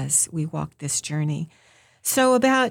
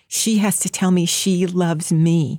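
begging; slower than usual. Retold or imitated. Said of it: "begging God to let him know".

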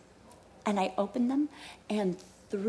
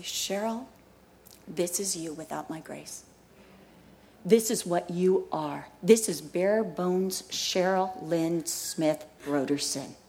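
voice of the Lord; 5 semitones lower, 4 dB quieter than usual. Retold or imitated. God speaking softly to a kneeling pastor's wife. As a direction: speak gently as God rebuking. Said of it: "I heard the voice of the Lord say".

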